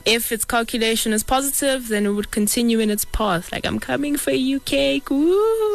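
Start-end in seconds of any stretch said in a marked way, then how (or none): 3.7-5.7 rising higher into a whoop; excited cheer. Pretend. Worm finds cake, cheers.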